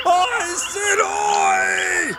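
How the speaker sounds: very high shrieking gnome yell. Acted. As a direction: scream from the top of the ladder. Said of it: "he shrieked from the very top".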